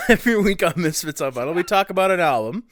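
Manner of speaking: groggy hungover voice; talking through a hangover. Real, not acted. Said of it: "Sorry, I'm very hungover".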